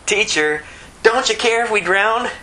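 a high, desperate cry to be saved from drowning; frightened disciples cry out to a sleeping Jesus; panicked plea. Retold or imitated. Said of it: "This is".

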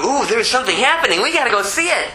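quick, rising excited chatter; mock the eager crowd rushing to look; hammed-up gawker's excitement; excited onlookers. Voices an eager, gawking crowd.

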